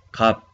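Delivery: 갑 ending only in ㅂ, with no ㅅ; first final consonant only. Shown as a demonstration. Teacher models the word for price, only ㅂ closing 갑. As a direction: say 갑 with just the first 받침, ㅂ. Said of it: "pronunciamos solo primero 받침".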